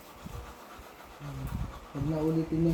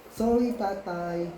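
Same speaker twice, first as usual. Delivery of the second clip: slow proper apology; much slower than usual. Shown as a demonstration. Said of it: "Sabi ko nga dapat".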